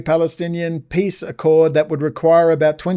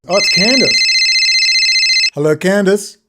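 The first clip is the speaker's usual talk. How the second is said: mock cheery welcome; 5 semitones higher, 5 dB louder than usual.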